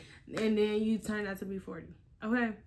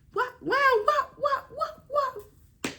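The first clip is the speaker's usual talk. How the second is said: mock disbelief; 14 semitones higher, 6 dB louder, slower than usual. Real, not acted. Mock disbelief, high-pitched.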